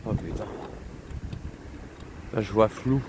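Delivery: slurring, tipsy and tired. Real, not acted. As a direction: speak like you've had too much. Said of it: "je suis vraiment éclaté".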